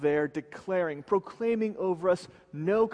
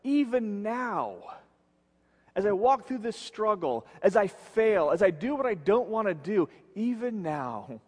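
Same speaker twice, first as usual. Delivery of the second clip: higher-pitched, pressing insistence as Paul; earnest insistence; 3 semitones higher than usual. Acted. Preacher voices Paul admitting his struggle with sin, earnest insistence. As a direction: press on through the admission, pitch lifted. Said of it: "and he's saying".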